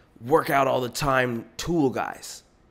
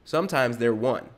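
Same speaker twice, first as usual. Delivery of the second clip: ordinary talk, nothing marked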